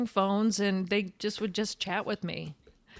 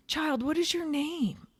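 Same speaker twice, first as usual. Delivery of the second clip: slow, higher, a touch theatrical; lightly voiced grand star; 6 semitones higher than usual. Star singles out the receptionist, lightly grand and slow. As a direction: lightly imitate a grande dame addressing a youngster.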